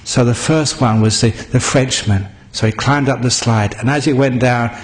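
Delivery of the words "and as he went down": ordinary delivery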